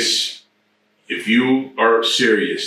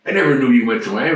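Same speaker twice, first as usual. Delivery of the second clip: high, fast disbelieving cry; can't believe what you just heard; teen stunned at news, surprised; astonished; 5 semitones higher than usual. Retold or imitated. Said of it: "I go".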